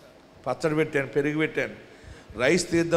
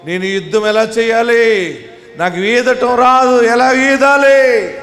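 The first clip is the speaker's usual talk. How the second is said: mock helpless plea; 4 semitones higher, 5 dB louder than usual. Preacher voicing a helpless believer.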